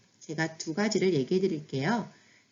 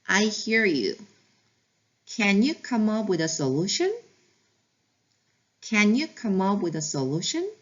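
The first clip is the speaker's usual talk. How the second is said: slow read-along; much slower than usual. Shown as a demonstration. Teacher reading aloud with the class, slow and clear. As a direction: read it slowly so learners can follow along. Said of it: "같이 읽어볼게요".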